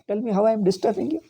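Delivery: rapid, mildly heated demand; retold angry demand. Retelling his challenge to a roommate, retold angry demand. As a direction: fire the question off quickly, mock-angry. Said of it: "I am angry".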